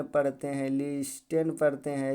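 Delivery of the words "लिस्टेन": लिस्टेन as "lis-ten" with the t sounded; common misreading. Shown as a demonstration. Teacher showing how people read it, t sounded. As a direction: say लिस्टेन with a hard t after the s. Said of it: "ऐसे पढ़ते हैं".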